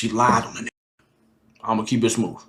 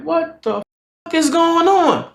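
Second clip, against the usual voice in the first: high, hushed mock bafflement; baffled disbelief; 8 semitones higher, slower than usual. Friend walks in on moaning, baffled. Reacting to moans he walked into.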